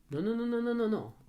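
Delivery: lightly mock a parent stopping a child; imitated fussing parent. Imita la reacción ante el niño. (imitando a un padre que frena al niño, tono agudo)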